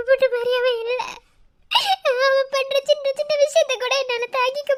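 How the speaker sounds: crying. Acted. Friend crying about marriage.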